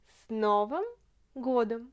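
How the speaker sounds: word by word. Shown as a demonstration. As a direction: break С Новым годом into separate words. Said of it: "Новый, ça veut dire".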